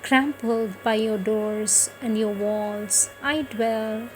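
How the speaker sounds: lifted, spaced-out poem reading with a pause at each line; poem recitation. Acted. Reciting Aurobindo's poem to devotees, a lifted poetic recitation. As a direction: recite it like a hymn to the hills.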